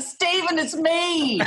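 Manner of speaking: put-on own Australian accent. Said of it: "speaking in my own Australian accent".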